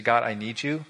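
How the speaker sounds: quiet heartfelt confession; model prayer. Shown as a demonstration. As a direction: lead them in a humble prayer.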